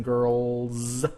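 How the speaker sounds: put-on GIRLS ending in a long buzzing Z; voiced Z ending. Shown as a demonstration. Teacher showing students the Z plural, voiced Z ending. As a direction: draw out a voiced z at the end of "girls". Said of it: "you say the Z sound".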